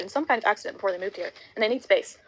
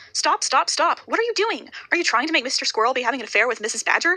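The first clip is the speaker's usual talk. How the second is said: squealing; 3 semitones higher than usual. Acted. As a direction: squeal at them to stop. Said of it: "Saskia squeals".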